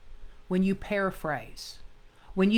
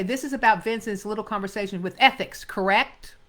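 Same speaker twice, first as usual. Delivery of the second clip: quick line ending on correct; paraphrased line; 4 dB louder than usual. Shown as a demonstration. Teacher shows actors wrongly paraphrasing, ending on correct. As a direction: swap in correct, same brisk read. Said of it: "Sometimes actors will say".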